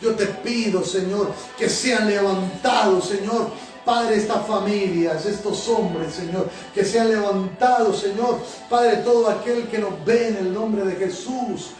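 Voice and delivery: prayer with repeated Señor; fervent prayer. Acted. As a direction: pour it out to God, pleading, line after line. Pastor leads a fervent prayer.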